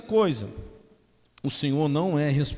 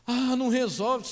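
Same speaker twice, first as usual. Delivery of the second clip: much higher mocking whine; mock whiny complaint; 13 semitones higher, 4 dB louder than usual. Pastor mocking a complaining believer, much higher. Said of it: "mocked complaint".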